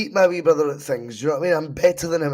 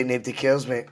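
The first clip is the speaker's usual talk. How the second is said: put-on a light stab at an Australian accent; attempted Australian accent; 3 semitones lower than usual. Co-host guessing what the Australian coach would say, in a mild Australian accent. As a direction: try to hold an Australian accent. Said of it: "keep it in an Australian accent".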